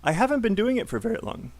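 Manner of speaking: quick repeat for class; brisk, connected model line; model sentence. Shown as a demonstration. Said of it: "say it with me".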